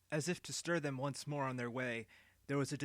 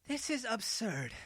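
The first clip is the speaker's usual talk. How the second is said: put-on higher, slow, scornful old woman; indignant exclamation; 9 semitones higher, 3 dB louder than usual. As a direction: spit out the disbelief slowly. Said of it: "she exclaimed".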